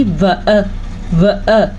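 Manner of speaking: व अ with both vowels cut short. Shown as a demonstration. Teacher showing how long zabar lasts, व अ kept short. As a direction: say व अ briefly, neither vowel stretched. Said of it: "अगर इससे थोड़ी सी भी ज़्यादा हुई".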